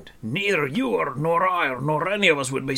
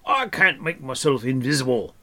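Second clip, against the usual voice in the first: loud, raised dwarf grumble; scornful snort; 5 semitones higher, 6 dB louder than usual. A narrator's reading. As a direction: grumble indignantly, pitched up. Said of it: "he snorted".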